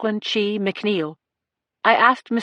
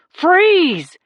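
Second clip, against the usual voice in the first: high, loud single command; yelled command; 9 semitones higher, 5 dB louder than usual. A narrator's reading. Cop yelling at a charging man, loud command. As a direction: shout it to stop him cold. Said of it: "Jacoby yelled".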